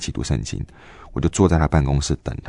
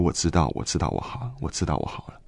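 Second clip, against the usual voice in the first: tearful; 6 dB quieter than usual. Retold or imitated. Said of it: "我就一直哭".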